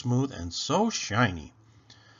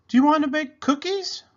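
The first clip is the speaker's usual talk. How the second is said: higher, louder, bright invitation; cheerful mother; 6 dB louder than usual. Acted. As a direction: coax a gloomy child with a treat. Mama cheerfully offers baking.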